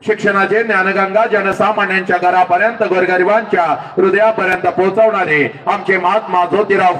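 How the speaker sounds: formal invocation in a steady, elevated chant-like cadence; ceremonial oration. Acted. Recites a formal invocation of heroes.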